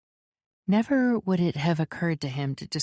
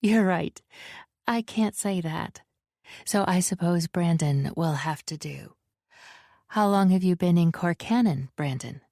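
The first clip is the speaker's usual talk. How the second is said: light woman's voice. Acted. Valette, female character voice.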